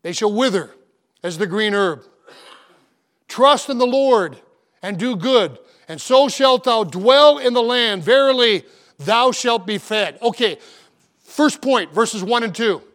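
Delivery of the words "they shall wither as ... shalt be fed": slow, solemn reading of the psalm; scripture reading. Acted. Pastor quoting the psalmist, slow solemn reading. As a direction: read the verse slowly and reverently. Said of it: "the sweet psalmist of Israel says".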